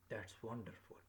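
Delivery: "wonderful" dropping away at the end; falling exclamation. Shown as a demonstration. Teacher demonstrating an exclamation to learners, falling intonation. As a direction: start on "That's", let "wonderful" fall. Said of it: "my voice is falling down".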